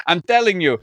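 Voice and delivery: hammed-up, badly faked Tony Montana accent. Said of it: "gonna do a Tony Montana accent".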